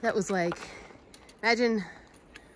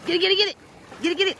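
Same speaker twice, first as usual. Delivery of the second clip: excited cheering; 10 semitones higher, 4 dB louder, much faster than usual. Real, not acted. Cheering dog to fetch stick.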